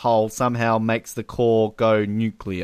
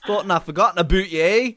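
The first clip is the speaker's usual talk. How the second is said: Canadian Bond; 5 semitones higher than usual. Retold or imitated. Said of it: "just turning Canadian".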